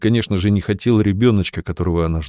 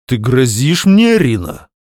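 taken aback; 4 semitones higher, 5 dB louder than usual. Acted. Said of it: "опешил он".

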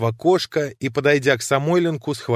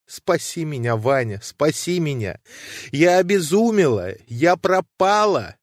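a lightly voiced woman in despair, higher; pleading heroine, mildly tearful; distraught woman pleading; 5 semitones higher than usual. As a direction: let her voice climb in anguish, slowing on the sins. Nadezhda's sobbing lament.

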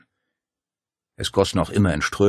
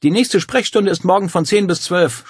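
higher, louder curt rasp; snarling housekeeper; 12 semitones higher, 7 dB louder than usual. A narrator's reading. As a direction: brush them off coldly. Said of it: "schnarrte die Frau".

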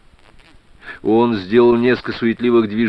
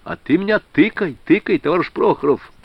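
gleeful, higher and eager; delighted; 6 semitones higher than usual. A narrator's reading. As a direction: brighten up with relief. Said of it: "обрадовался Суворов". (обрадованно, оживлённо)

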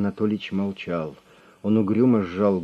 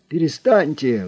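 high, loud panicked squeal; shriek; 8 semitones higher, 7 dB louder than usual. A narrator's reading. Boss facing Drongo's raised pistol, shrieking. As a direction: squeal in terror at the gun. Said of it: "взвизгнул".

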